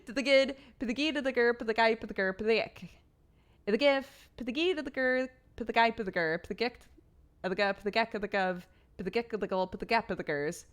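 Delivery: rapid nonsense syllables to the Peter Piper rhythm; gibberish. Pretend. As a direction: rattle the twister off as made-up gibberish. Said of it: "Say the Peter Piper tongue twister in gibberish".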